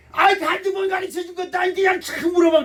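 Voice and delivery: a husband fed up with his wife's phone questions; irritated outburst. Retold or imitated. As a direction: vent the annoyance about the phone.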